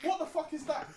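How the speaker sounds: loud, high-pitched disbelief; outraged shout. Real, not acted. Podcaster reacting to an absurd finisher, outraged shout. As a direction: shout it in outrage, first one drawn out.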